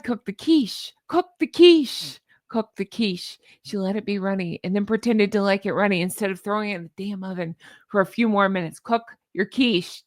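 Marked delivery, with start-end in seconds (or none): 1.1-2.2 high, loud, drawn-out "Cook the quiche"; loud slow shout. Shown as a demonstration. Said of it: "Here's my crazy thing at the end". 8.8-10.0 slow emphatic. Shown as a demonstration. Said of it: "my crazy thing at the end".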